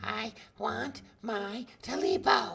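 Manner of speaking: very high, hoarse, croaking creature voice. Narrator voicing the creature in the darkness, a high hoarse croaking voice. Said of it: "A high hoarse voice croaked from the darkness".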